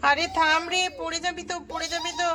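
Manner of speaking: warning. Acted. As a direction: call out to stop the child before she falls.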